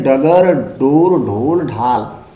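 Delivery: डगर, डोर, ढोल, ढाल with plain retroflex stops; ordinary stop consonants. Shown as a demonstration. Teacher reading डगर, डोर, ढोल, ढाल as ordinary consonants, plain retroflex stops. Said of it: "उच्चारण साधारण रूप से कर लेते हैं".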